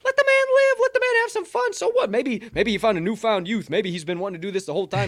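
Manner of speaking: loud, high-pitched indignant rant; fired-up outburst, voice jumping high; worked up. Real, not acted. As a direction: plead his case at full volume. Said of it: "I'm getting a little worked up".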